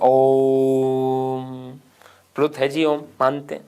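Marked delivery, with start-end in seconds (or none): 0.0-1.7 quick clipped Om. Retold or imitated. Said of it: "बड़ी तेज गति से एक उदाहरण बोल देते हैं".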